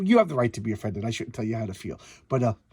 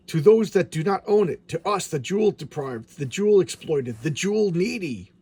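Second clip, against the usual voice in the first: villain voice; 3 semitones higher, 4 dB louder than usual. Acted. Voicing villains' claim.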